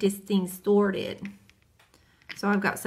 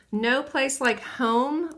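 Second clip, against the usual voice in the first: slow name reading; 4 semitones higher, much slower than usual. Real, not acted. Reading polish name slowly.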